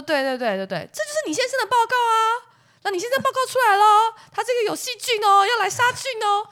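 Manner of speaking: high, quick, chirpy phone voice; chirpy clinic counselor. Retold or imitated. Clinic counselor on the phone to the wife, chirpy and high. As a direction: play the breezy counselor reading out results. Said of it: "counselor insists on the report".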